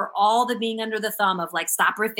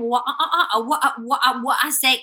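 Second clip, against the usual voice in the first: stuttering impression; 3 semitones higher, 3 dB louder than usual. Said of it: "It's like a stuttering".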